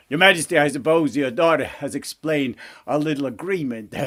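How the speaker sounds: insinuate it as a crafty frog, chuckling after; sly frog. Acted. Frog reminds king of princess's agreement, sly frog voice.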